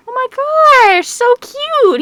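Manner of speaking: high, slow gushing squeal. Real, not acted. Viewer squealing over a cute couple picture, high and slow.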